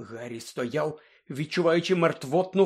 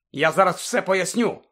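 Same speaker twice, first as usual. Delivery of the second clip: exclaiming; 5 semitones higher, 6 dB louder than usual. A narrator's reading. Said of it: "вигукнув Люпин".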